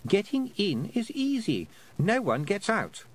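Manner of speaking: put-on a trapped boy's bleak certainty; doomed boy warning.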